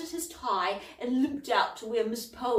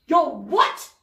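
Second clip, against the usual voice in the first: sudden loud blurt; forgot to whisper; 4 semitones higher, 12 dB louder than usual. A narrator's reading. Cauldron startled by Jezebel, loud outburst. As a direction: blurt it out, caught off guard. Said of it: "Cauldron forgot to whisper".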